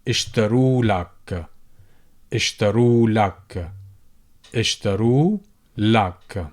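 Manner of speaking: اشتروا لك, alif dropped; shortened form. Shown as a demonstration. Teacher drills the everyday short form. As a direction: run لك into the verb. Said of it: "they will say".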